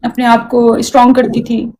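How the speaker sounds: slow, tearful restart; real tearfulness. Real, not acted. Woman resuming her story after being asked, tearful. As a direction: pick the story up slowly through tears. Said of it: "क्यों रो क्यों रहे यार".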